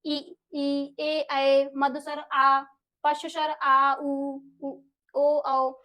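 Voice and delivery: each vowel sounded out on its own; vowel demo. Shown as a demonstration. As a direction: say each vowel slowly and clearly. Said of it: "अग्र स्वर हमारे कौन से होते हैं?". (स्वरों का स्पष्ट उच्चारण)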